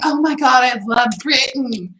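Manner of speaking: mock-gush like a starstruck local; gushing excitement. French locals gushing at a supposed Brit, mock excited. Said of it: "people would be like".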